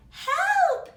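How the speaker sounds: very high, loud scream for help; shout. Acted. Mother bear shrieking at the flood, high and loud. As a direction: shriek it in panic. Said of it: "shouted Missus Blair".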